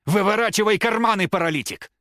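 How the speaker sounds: high, loud aggressive yell; furious order. A narrator's reading. Рома grabs the old man and yells, furious. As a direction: bark the order.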